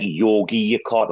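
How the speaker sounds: "Yogi Yakarta", said as Yogi like Yogi Bear then Yakarta; pronouncing Yogyakarta. Shown as a demonstration. Explaining the Indonesian city's name to friends, says "Yogi Yakarta" carefully as Yogi plus Yakarta. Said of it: "but it's pronounced, like".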